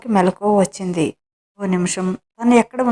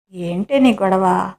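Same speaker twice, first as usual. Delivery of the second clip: slow, easy drawl; slow and unbothered; slower than usual. Acted. Husband brushing off his wife's scolding: slow, lazy. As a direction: shrug off her fuss, slowly. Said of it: "అంతా విని ఏంటే అంటారు నిదానంగా".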